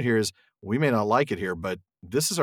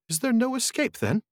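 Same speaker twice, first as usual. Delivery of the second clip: high, panicky hobbit voice; frightened Frodo; 13 semitones higher than usual. Acted. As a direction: ask wildly, looking round in fear. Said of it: "looking round wildly".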